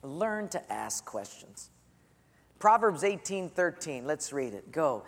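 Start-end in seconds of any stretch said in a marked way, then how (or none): 0.0-1.7 slow dictation. Shown as a demonstration. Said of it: "write in your bullet there".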